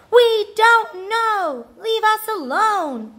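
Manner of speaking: high, loud, drawn-out yell; exasperated shout. A narrator's reading. Siblings fed up with Rascal's questions, shouting. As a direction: wail it out, fed up. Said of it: "they shouted".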